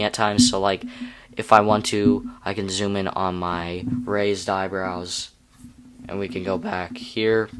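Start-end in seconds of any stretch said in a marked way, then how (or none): 6.1-7.5 voice crack. Real, not acted. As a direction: voice cracking mid-phrase. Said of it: "Ooh, voice crack".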